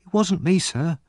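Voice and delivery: put-on high, anxious boy's protest; pleading. A narrator's reading. Oliver denying theft to the policeman, pleading. Accused boy pleads innocence.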